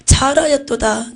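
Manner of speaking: slow, fuller repeat of the praise; slow it down and give it weight; a slow solemn second take of the blessing; solemn voice of Jesus. Retold or imitated. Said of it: "우레와 같기도 했어요".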